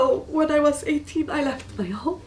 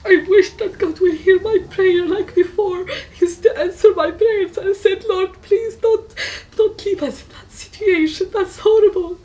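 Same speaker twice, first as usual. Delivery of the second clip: high, loud voice breaking into sobs; pleading through real tears; crying prayer; 8 semitones higher, 9 dB louder than usual. Real, not acted. Pleading with God for her mom, crying.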